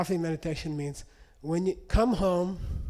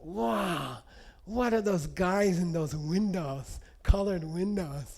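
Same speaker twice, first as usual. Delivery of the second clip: imitating a delighted lama, slow and drawn out; happy wonder; slower than usual. Lama seeing church windows, imitated in slow, happy wonder. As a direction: marvel slowly, in mild imitation. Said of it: "so happy".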